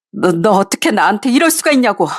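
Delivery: stammered, pressing accusation falling at the end; bitter accusation. Acted. Wife repeating her accusation, falling and bitter. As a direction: drive the blame home, stress 이럴. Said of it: "부들부들 떨면서 화를 냈습니다".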